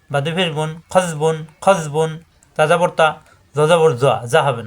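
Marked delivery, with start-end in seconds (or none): 0.9-2.1 খজবুন said slowly, খজ joined as one syllable; slow syllable drill. Shown as a demonstration. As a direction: spell out খজবুন slowly for students. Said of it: "দুই হরফ মিলে একসাথে উচ্চারণ হবে". (ধীরে ধীরে খজবুন)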